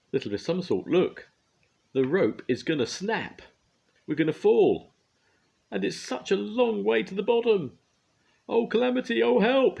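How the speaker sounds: high, loud rising panic cries; a man terrified of falling. A narrator's reading. Mister Brave panicking on the snapping tightrope, loud high cries. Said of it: "he cried out in panic".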